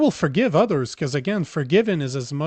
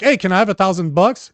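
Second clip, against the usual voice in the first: casual ask; 4 semitones higher, 4 dB louder than usual. Retold or imitated. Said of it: "you're like".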